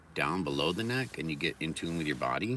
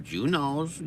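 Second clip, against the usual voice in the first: higher, louder put-on voice; mock knowing voice; 8 semitones higher, 4 dB louder than usual. Repeating the pun in a higher put-on voice. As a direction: sing out the pun playfully.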